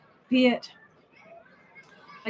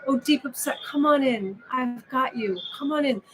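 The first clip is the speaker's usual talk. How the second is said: a high, bright hint of an eager innkeeper; welcoming host; 4 semitones higher than usual. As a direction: greet each feeling like a welcome guest, lightly voiced.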